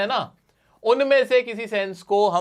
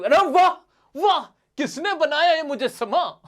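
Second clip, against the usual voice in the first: sarcastic praise; 8 semitones higher than usual. Retold or imitated. Teacher acts the poet faking praise for bad work, mock delight. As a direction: gush over something you secretly hate. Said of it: "उसने तारीफ".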